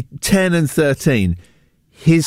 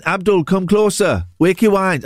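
put-on Wakefield accent; 3 semitones higher than usual. Radio host mimics the viral Wakefield TikTok shop owner in a lightly voiced Wakefield accent. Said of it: "it's a Wakefield accent".

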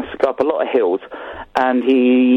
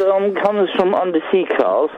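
put-on light Jamaican accent; 4 semitones higher than usual. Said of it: "Why are you doing a Jamaican accent?".

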